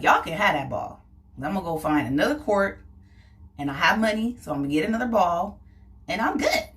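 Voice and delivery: passive aggressive brush-off. Retold or imitated. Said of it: "I'm like".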